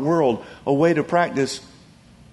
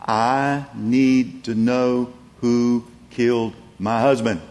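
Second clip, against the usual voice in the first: persistent plea; 3 semitones lower, slower than usual. Retold or imitated. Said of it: "She still persisted".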